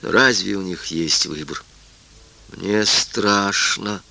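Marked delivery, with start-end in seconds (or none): 2.5-4.0 flat, very slow mechanical voice. Acted. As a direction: colourless mechanical voice, no emotion. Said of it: "бесцветным механическим голосом".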